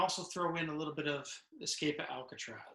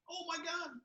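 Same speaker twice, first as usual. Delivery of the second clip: much higher, delighted mock exclaim; delighted exclamation; 14 semitones higher, 8 dB quieter than usual. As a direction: imitate the happy maintenance guy's gasp of joy. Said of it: "The guy was happy".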